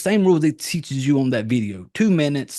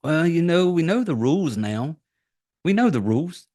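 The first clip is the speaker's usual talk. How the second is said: higher, lightly voiced excuse-making; mock wheedling; 4 semitones higher than usual. Iris excusing herself to Katie, lightly mock wheedling. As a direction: spin it like a sly talker. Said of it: "starts trying to spin it".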